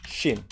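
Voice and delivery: "Shin" said softly with an ee vowel, like "sheen"; demonstrated pronunciation. Shown as a demonstration. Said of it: "Pronunciation Shin".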